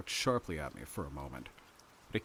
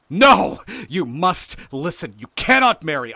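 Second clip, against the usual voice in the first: loud, high, commanding outburst; vehement, high-pitched orders; furious shout; 8 semitones higher, 16 dB louder than usual. A narrator's reading. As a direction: shout them down. Hildred's enraged refusal.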